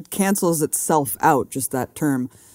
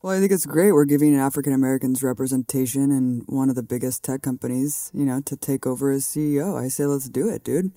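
sarcastic. Pretend. Co-host playing along with the two-minute joke, sarcastic. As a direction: play along with the joke as if all for it. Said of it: "very sarcastic, like, two-minute long joke".

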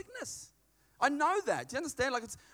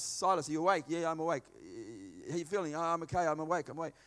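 hushed night whisper; 6 semitones lower, 5 dB quieter, faster than usual. Acted. Paul and Silas whisper in prison.

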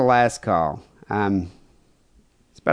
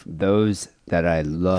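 low, drawn-out sinister whisper-like tone; serial killer voice; 6 semitones lower, much slower than usual. Retold or imitated. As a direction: savor each word like a killer. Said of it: "He sounds like a serial killer".

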